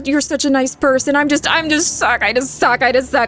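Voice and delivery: mock narcissist. Streamer mocks a narcissist to a partner, whiny poor-me voice. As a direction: overplay the poor-me victim, fishing for comfort. Mocking a self-pitying narcissist.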